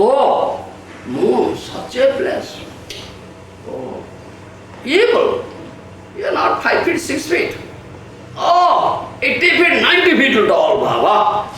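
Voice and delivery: hammed-up salesman luring people, high and excited; mock sales pitch. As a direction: oversell the moon like a huckster. Mocking the promoters' sales pitch.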